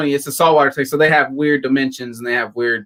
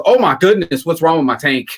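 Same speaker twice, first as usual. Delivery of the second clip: mock dismay; 3 semitones higher, 4 dB louder than usual. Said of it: "He comes in and he goes".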